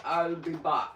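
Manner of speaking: lightly voiced action-hero catchphrase; a hint of an Austrian-accented movie line; Arnold. Host quotes a film catchphrase before stepping away, light impression. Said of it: "as Arnold would say".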